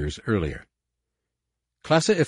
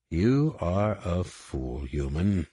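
slow, soft alien sneer; menacing alien; 2 semitones lower, 4 dB quieter, much slower than usual. Acted. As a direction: drawl the insult coldly. Alien general taunts captive.

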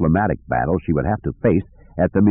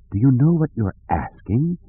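soft pleading; 5 semitones higher than usual. A narrator's reading. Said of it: "in a soft, pleading voice".

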